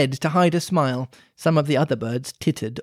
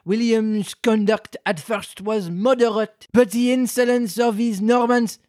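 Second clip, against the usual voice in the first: pompous mouse reading; 5 semitones higher than usual. Acted. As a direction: recite it like a dry history lesson. Mouse continues dry history.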